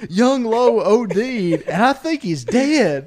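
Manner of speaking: can't keep it together while quoting Farva; laughing through quote. Retold or imitated. Telling friends Farva's awful news, laughing through it.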